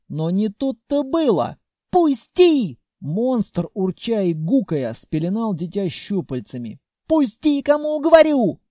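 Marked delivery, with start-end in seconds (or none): 1.9-2.8 put-on high, loud child's cry; shrill yell. A narrator's reading. Child yelling at the monster to let go. 7.1-8.6 put-on high, loud child's cry; shrill yell. A narrator's reading. Child yelling at the monster to let go.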